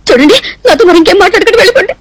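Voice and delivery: tearful, voice breaking as she sends him off; crying. Acted. Girl in tears telling the man to leave. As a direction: push him away through tears. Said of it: "ఎందుకు ఏడుస్తున్నట్టు?".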